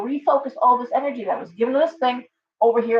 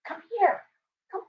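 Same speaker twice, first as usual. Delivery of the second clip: much higher sing-song come here; high cooing come here to a parrot; sweet pet call; 10 semitones higher, 4 dB quieter than usual. Real, not acted. Calling the bird again.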